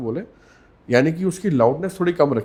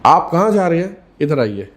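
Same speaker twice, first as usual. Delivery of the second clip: sharp tone; 5 dB louder than usual. Shown as a demonstration. Speaker shows how tone changes meaning, sharp loud summons. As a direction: order someone over in a sharp, raised voice. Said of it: "बात के मायने change हो जाते हैं".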